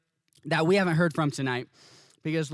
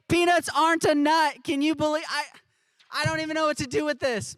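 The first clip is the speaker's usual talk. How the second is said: surprised; 7 semitones higher than usual. Real, not acted. Host stunned by fact reveal.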